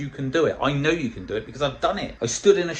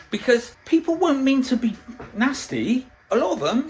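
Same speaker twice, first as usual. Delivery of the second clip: emphatic; 11 semitones higher, 4 dB louder than usual. Real, not acted. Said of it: "emphatic point".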